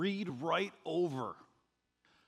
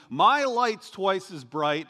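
mocking boast; 3 semitones higher, 6 dB louder, slower than usual. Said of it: "all of that silliness".

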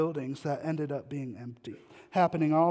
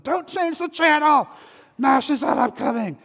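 put-on much higher, much louder excited kid's shout; excited yell; 10 semitones higher, 11 dB louder than usual. Boy yelling to family as MASH starts. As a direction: yell it like a kid racing to the TV. Kid running to the TV.

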